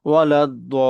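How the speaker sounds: ওয়ালাদ দল with a very long held vowel in দল; four-alif stretch. Shown as a demonstration. Teacher applying the madd rule, ওয়ালাদ দল with দল greatly prolonged. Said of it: "চার আলিফ টেনে পড়বো".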